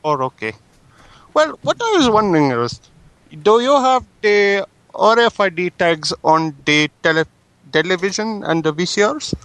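prank caller in a put-on Indian English accent; polite caller with an Indian accent, a touch pushy. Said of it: "Should I do an accent?".

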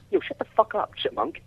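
high yell, cutting in. Real, not acted. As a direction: snap it high and sharp. Yelling at the chipmunk.

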